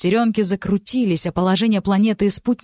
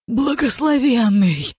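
frightened; 6 semitones higher, slower than usual. A narrator's reading. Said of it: "испуганно прошептал обезумевший".

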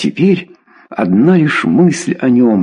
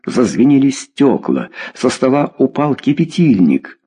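ordinary delivery, nothing marked

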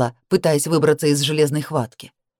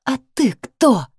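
higher, slow furious hiss; hissed through teeth; 8 semitones higher, slower than usual. Acted. Woman snaps back at her ex, higher, slow hiss. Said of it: "зашипела я сквозь зубы".

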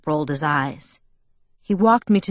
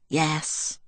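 sighing; 2 semitones lower, 6 dB quieter than usual. A narrator's reading. Jacob answering Bella after the kiss, sighing. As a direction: let it out on a mild sigh. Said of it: "he sighed".

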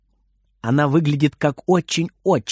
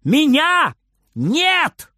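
yelling with all his might; 11 semitones higher, much slower than usual. Acted. Boy yells from the wardrobe to grandma. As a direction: bellow it as hard as he can. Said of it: "вопит Фридер изо всех сил".

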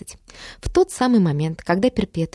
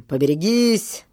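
slow, drawn-out warning call; lightly voiced shout of a crew member; mild call of warning. A narrator's reading. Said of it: "ввалился с криком".

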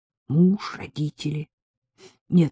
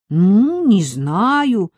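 mock-whiny imitation of the pupil; mimicking; 3 semitones higher, 6 dB louder, much slower than usual. Anya mocking Henrietta's words, teasing mimicry. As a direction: parrot her teasingly. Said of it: "передразнила я".

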